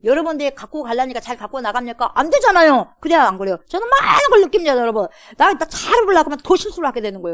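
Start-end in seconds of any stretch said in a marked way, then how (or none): 2.1-7.3 loud, high fervent cry; impassioned preaching. Real, not acted. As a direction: pour it out with fervor. (열정적으로 높고 크게 외치는 설교)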